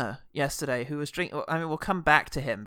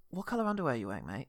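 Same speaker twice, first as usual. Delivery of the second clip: softer question through laughter; laughing mock question; 4 semitones lower, 8 dB quieter, faster than usual. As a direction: ask it quietly, giggling. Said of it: "it feels like me leaning over and saying".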